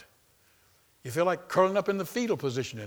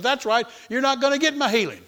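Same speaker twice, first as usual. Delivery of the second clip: high, louder devil voice agreeing; the devil, gloating; 9 semitones higher, 6 dB louder than usual. Retold or imitated. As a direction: crow it as a taunting devil. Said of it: "He goes".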